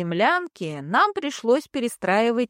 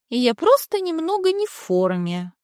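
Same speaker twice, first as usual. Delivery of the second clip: gurgling; 7 semitones higher than usual. Acted. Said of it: "обиженно пробулькала".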